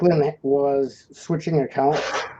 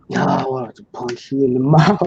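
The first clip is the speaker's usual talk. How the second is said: laughing. Retold or imitated. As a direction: quote broken by a laugh. Requotes threat while laughing.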